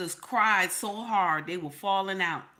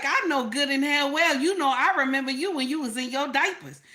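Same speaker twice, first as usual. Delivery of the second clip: scolding church women; 4 semitones higher, faster than usual. Retold or imitated. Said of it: "They was like".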